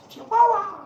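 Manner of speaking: high, loud excited cry of the name; excited yell. Real, not acted. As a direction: burst out with it, thrilled. Excited shout of dog breed.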